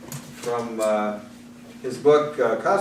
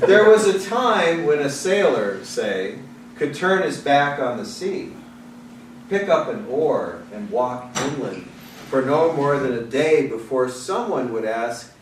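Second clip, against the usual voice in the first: measured, rhythmic poetry reading; poem reading. Acted. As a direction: give each line its weight. Reads the Gagarin poem.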